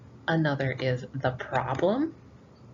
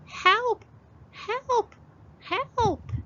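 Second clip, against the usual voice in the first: crying for help; much slower than usual. Acted. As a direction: scream for help from the pot. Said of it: "Granny cried".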